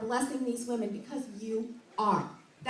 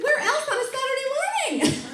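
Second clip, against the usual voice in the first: high, loud crowd-rousing call; excited shout; 12 semitones higher, 6 dB louder than usual. Retold or imitated. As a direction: shout it out, thrilled to be here. Retelling a shout to the room.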